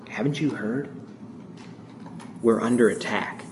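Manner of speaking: just above a whisper. Retold or imitated. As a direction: barely breathe the words out, stunned. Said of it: "just above a whisper".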